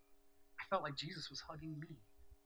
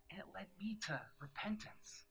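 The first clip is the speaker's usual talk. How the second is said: whispered; 5 semitones higher than usual. Real, not acted. Whispered confession.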